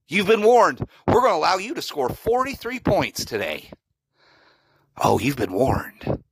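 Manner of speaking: lightly mocking, smug coach voice; a hint of a smug defensive coordinator; Jim Knowles impression. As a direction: taunt Michigan as a cocky coach. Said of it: "my best impression of Jim Knowles".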